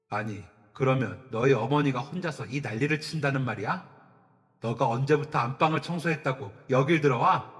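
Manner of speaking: loud, huffing interrogation; a father raging at his son; father's furious scolding. Acted. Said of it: "씩씩대더라고요". (씩씩대며 아들을 다그치는 아버지)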